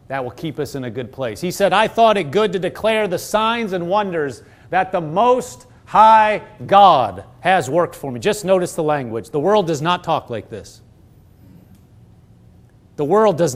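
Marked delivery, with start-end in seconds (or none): 1.7-8.2 reverent scripture reading, slowing at the end; reverent praise. Acted. Preacher reads the king's testimony to congregation, reverent praise. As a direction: read the king's words as praise, drawing out the close. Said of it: "somebody that is reverencing God speaks".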